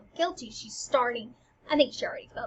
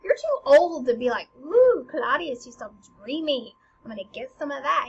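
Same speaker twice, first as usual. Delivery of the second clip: mocking Hamlet; 2 semitones higher, 6 dB louder than usual. Hamlet mocks his mother's crush, teasing voice. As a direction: tease her like a snotty teen. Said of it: "he's even saying".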